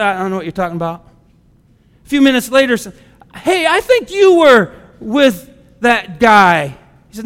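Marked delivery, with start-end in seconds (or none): 0.0-1.1 brush-off denial. Retold or imitated. Peter's first denial, acted. 3.3-6.8 slow accusation. Retold or imitated. Bystander accuses Peter, acted.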